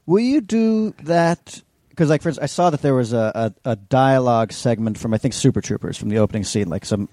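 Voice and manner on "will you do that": high, drawn-out mock request; slow, high-pitched imitation of someone directing; imitated director. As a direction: slowly coax in a put-on high voice. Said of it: "did they direct you to be like".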